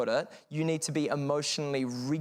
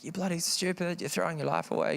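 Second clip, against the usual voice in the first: mildly heated retelling of mum's scolding; angry, frustrated mum; 4 semitones higher than usual. Retold or imitated. Mother yelling at drug-using teenager, understated anger. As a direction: imitate an exasperated parent, pitched up a little. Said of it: "she was angry, and she was frustrated".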